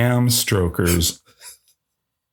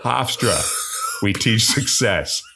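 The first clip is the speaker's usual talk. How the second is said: theatrical announcer read, amused; animated, big-billed podcast introduction; film intro read; 3 semitones higher than usual. Acted. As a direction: present the film with a showman's swoop. Reads the film's introduction.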